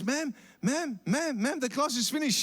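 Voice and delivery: put-on a boy nudging his sleeping teacher awake; little boy calling ma'am.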